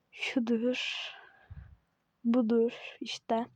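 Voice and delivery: soft secretive whisper; just breathe the word out. Real, not acted. Copying the rival's outfit, whispered.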